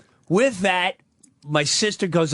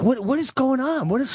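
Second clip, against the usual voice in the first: aide shocked; 10 semitones higher, faster than usual. Retold or imitated. Aide catching the abuse.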